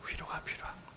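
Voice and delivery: soft whispered answer. Shown as a demonstration. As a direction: whisper the comfort. (조용히 속삭이며)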